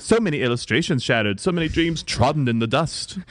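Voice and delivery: melodramatic British lament; British accent. Acted. Actress performing her old play, British melodrama. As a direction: declaim like a British tragedienne. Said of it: "my accent is superb".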